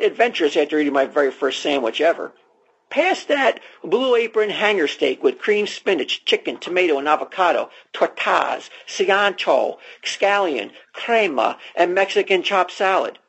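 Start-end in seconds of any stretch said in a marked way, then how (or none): 2.9-13.2 ad read. Acted. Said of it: "we'll just start from here".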